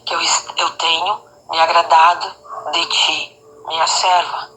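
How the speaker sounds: low, measured words with solemn pauses; bem suave. Retold or imitated. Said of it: "Ele repetiu". (voz suave, grave e pausada)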